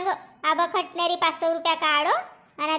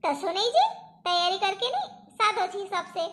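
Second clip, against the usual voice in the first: chuckling through the words; laughing reply; 3 dB quieter than usual. Real, not acted. Wife laughing off husband's demand for preparation, chuckling. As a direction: laugh it off, teasing him.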